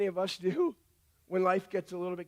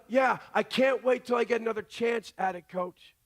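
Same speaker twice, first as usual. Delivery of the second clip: eager answer. Retold or imitated. Daughter telling her coach she wants back in, eager shout. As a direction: burst out ready for another go. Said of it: "Instead of".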